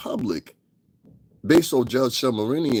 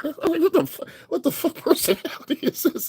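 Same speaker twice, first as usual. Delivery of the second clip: laughing while talking. Real, not acted. Cracking up at the movie impression.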